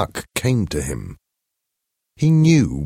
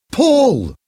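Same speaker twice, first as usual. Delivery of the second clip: sharp high shout of a name; a frightened mother cries out, much higher and louder; 6 dB louder than usual. A narrator's reading. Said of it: "Hester shouted".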